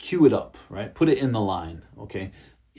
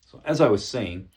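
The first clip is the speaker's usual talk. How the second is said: calm firm reclaim. Shown as a demonstration. Presenter reclaiming the floor from an interrupter, calm and firm. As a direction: hold the floor politely but firmly. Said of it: "Just say like that".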